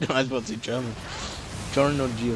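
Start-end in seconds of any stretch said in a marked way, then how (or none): 1.7-2.4 "Giorno Giovanna" with Italian flair; Italian pronunciation. Shown as a demonstration. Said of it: "He's Italian".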